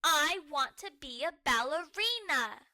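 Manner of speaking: put-on a loud, cross toddler demand; stomping tantrum. Muffin stomping her feet at Bluey, a cross tantrum. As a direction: dig in your heels and insist. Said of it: "Muffin stomps her feet".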